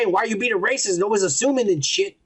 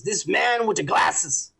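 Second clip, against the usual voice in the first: reading a letter aloud; much slower than usual. Real, not acted. Reads a listener's letter aloud.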